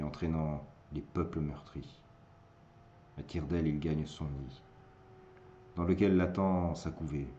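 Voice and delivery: measured verse, line by line with pauses; sombre poem recitation. Acted. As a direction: recite with brief swells and falling endings.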